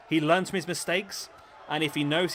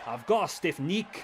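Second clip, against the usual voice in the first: put-on Scottish accent; slower than usual. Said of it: "Scottish man saying the word neck".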